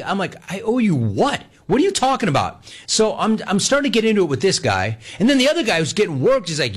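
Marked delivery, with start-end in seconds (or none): 0.5-2.6 high-pitched disbelieving question; incredulous retort. Retold or imitated. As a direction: throw it back, baffled and high. Retold quarrel, disbelief.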